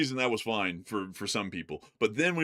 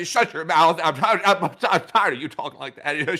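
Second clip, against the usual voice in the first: mock angry outburst; 6 semitones higher, 7 dB louder than usual. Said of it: "I, I".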